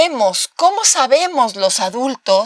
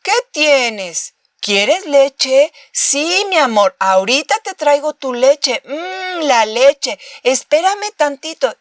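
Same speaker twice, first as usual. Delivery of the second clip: lightly voiced parent soothing baby; 3 semitones higher than usual. Shown as a demonstration. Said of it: "y le decimos".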